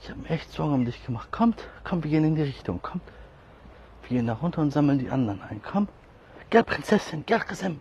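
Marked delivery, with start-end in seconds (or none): 1.3-3.0 high calling. Real, not acted. 5.6-7.8 high pet talk. Real, not acted.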